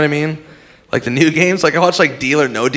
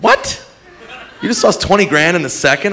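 mock disbelief; 4 semitones higher than usual. Outraged mock question.

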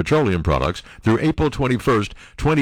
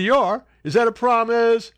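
mock J D; 10 semitones higher than usual. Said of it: "He said".

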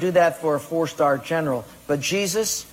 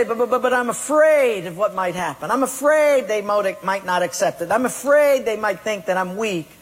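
fearful excuse; 3 semitones higher than usual. Acted. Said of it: "But you say".

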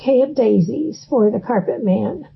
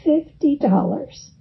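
"Fifty dollars" said with mild, grudging regret; a touch of rueful resignation on "Fifty dollars"; 3 semitones higher, 3 dB quieter than usual. Retold or imitated. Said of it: "he said ruefully".

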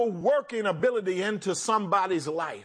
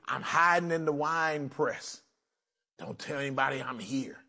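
scared hiding whisper; 6 semitones lower, 5 dB quieter than usual. Acted. Gideon voiced hiding in fear.

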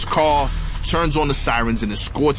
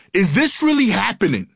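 imitated yelling; 8 semitones higher than usual. Delirious cop questioning God and reality, mock yelling. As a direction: cry out in exasperated disbelief, imitating the cop. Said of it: "he just starts yelling".

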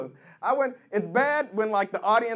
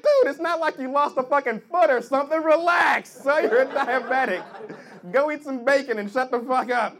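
scolding friend; 3 dB louder than usual. Retold or imitated. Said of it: "I was like".

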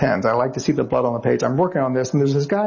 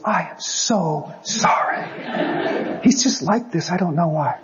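slow, higher, mock-apologetic wife; higher, slow voice of an embarrassed wife; 4 semitones higher, slower than usual. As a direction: play the embarrassed wife saying sorry. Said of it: "she goes".

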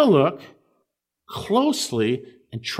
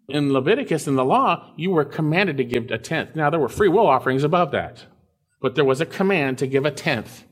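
ordinary delivery

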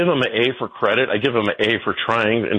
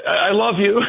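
sarcastic sweetness; 10 semitones higher than usual. Retold or imitated. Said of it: "I'm like".

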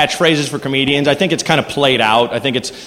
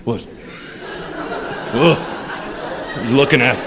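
straining on a unicycle; 5 semitones lower, 7 dB quieter, faster than usual. Retold or imitated. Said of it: "trying to keep your balance".

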